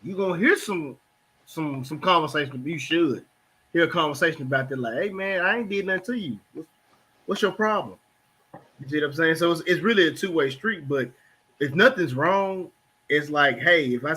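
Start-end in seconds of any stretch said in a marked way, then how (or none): 4.9-8.0 defensive man. Retold or imitated. Man acting out defensive reply.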